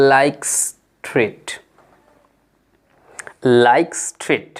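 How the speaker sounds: "like street" blended, the s of street joined onto like; linked words. Shown as a demonstration. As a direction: run "like" straight into "street" as aiks-trit. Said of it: "এসটাকে আপনি মিশিয়ে বলেন".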